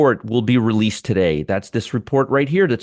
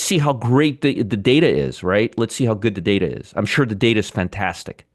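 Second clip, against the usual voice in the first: sarcastic; 5 semitones lower than usual. Real, not acted. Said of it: "Yes, I'm being very sarcastic".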